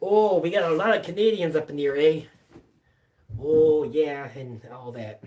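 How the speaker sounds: quick, hammed-up bad Canadian accent. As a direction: toss off a jokey bad Canadian accent, fast. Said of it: "horrible Canadian accent".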